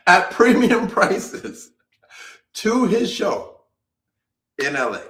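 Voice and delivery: laughing. Real, not acted. Laughing disbelief about ticket prices.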